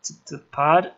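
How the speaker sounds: put-on a scared kid tripping over his words; stammering. Rory stammering to McKenna that he cannot remember, stuttering.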